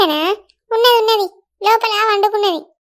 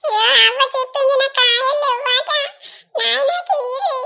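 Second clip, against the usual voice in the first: higher, slow tearful whine; acted child crying; 4 semitones higher than usual. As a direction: sob out the complaint like a hurt little boy. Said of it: "అన్ని ఎందుకు ఏడిపిత్తన్నావు". (ఏడుస్తూ ఫిర్యాదు చేసే పిల్లవాడు)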